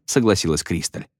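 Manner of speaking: ordinary delivery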